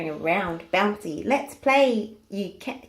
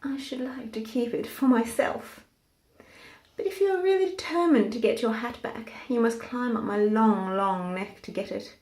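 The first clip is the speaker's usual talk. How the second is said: a hint of a lofty giraffe teasing the pig. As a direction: giraffe keeping the hat, lightly voiced. Giraffe speaks to Hamilton.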